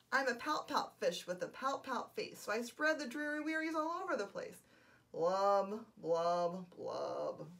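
the sulky fish sings his refrain; glum pout fish. Acted. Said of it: "glum, gloomy swimmer".

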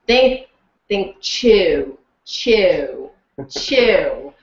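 slow drilled Australian vowels on "chew"; imitating an Aussie dialect tape; coach's Aussie drill. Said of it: "they'd be like".

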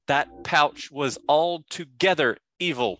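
short and curt; terse. Acted. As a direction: bite the words off tersely. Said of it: "say in a real terse voice".

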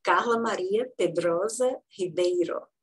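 Carla Maria Pedrosa Ribeiro said the Brazilian Portuguese way; Portuguese pronunciation. Shown as a demonstration. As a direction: give each part of Carla Maria Pedrosa Ribeiro its native Portuguese sounds. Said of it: "I'm pronouncing how it is".

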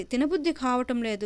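plain reading voice

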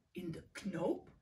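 words stretched through a yawn; lightly yawned, drowsy octopus. A narrator's reading. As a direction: yawn it out, sleepy. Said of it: "graapt Octopus".

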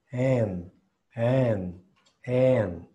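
"En" with a dull, lax E; E torpe. Shown as a demonstration. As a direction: say "En" with a loose, clumsy E sound. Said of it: "una E torpe". ("En" con una E torpe)

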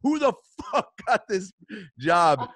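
high, loud mock outrage; acted exasperation; hard-pressed demand. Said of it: "I just was so hard pressed".

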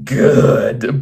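lightly rasped reply; a touch of villainous rasp. Acted. Bill answers Henry's plea, lightly rasped. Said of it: "Bill rasped".

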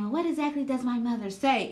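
imitating Tisha's fake confusion; mock innocent. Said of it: "when Tisha kept saying".

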